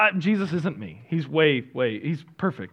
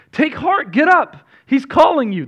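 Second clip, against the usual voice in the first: eager crowd call; 12 semitones higher, 9 dB louder than usual. Acted. Crowd calls blind man in reading.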